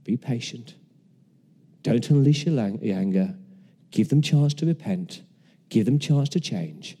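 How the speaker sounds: soft, calm, patient reassurance; gentle patient voice of God. Retold or imitated. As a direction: speak softly like a patient father calming a child. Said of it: "And God is there saying".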